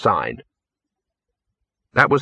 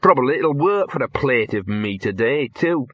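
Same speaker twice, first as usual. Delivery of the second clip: self-pitying; 4 semitones higher than usual. Acted. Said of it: "muttered in a self-pitying voice".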